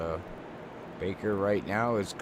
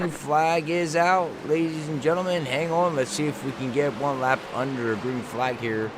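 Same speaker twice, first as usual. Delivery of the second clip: higher-pitched live play-by-play; race restart call; 6 semitones higher, 4 dB louder than usual. Real, not acted. Announcer to viewers as the race restarts, lifted play-by-play call. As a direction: call the green flag with rising energy. Calls the restart green flag.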